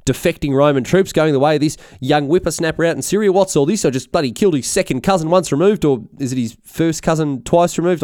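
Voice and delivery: high-pitched, indignant mock rant; very unhappy. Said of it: "He's very unhappy when he hears".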